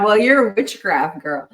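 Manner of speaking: loud, quick mock comeback; hammed-up loud accusation; mock accusing retort. Mock-quotes an outraged Southern Baptist retort.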